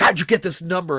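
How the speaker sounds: rude, irritated, angry voice, loud and high. Retelling what a man said when he got angry at the speaker, mock-angry. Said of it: "he got all like angry at me".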